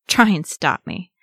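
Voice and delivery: loud, scoffing dare; snorted defiance. A narrator's reading. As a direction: snort it as a challenge. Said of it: "snorted Nolly".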